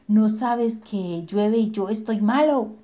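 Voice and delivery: slow, loud roaring giant; fire giant voice. Acted. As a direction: roar it slowly as the giant. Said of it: "rugió el gigante". (voz de gigante de fuego que ruge)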